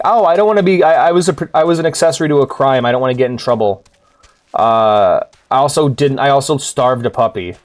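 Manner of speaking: whiny guilty character. Retold or imitated. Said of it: "It's like".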